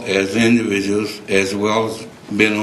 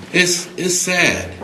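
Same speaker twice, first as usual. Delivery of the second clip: getting emotional; 8 semitones higher, slower than usual. Real, not acted. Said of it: "I'm getting emotional now".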